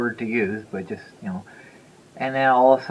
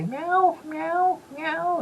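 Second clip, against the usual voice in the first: very high meowing cat; much slower than usual. Retold or imitated. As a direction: meow like a worried cat. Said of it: "He's like".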